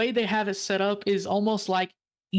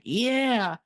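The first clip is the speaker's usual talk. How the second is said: higher-pitched imitation of a Southern yes; Southern accent; 4 semitones higher than usual. Owner agrees with the visitors, in a Southern accent. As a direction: agree like a keen Southern local. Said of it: "He talked like this".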